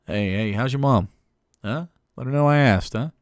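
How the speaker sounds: lightly voiced uncle at a barbecue; chummy uncle checking in, lightly put on; a hint of backyard-cookout uncle. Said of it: "one of the uncles at the barbecue".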